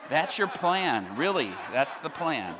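slow, drawn-out incredulous reaction; deadpan disbelief. Retold or imitated. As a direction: stretch it out in mock disbelief. Repeats disbelief at the plan.

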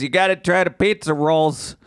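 half-hearted imitation of a Pittsburgh local; attempted Pittsburgh accent. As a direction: have a clumsy go at a Pittsburgh accent. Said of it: "I can't do a Pittsburgh accent".

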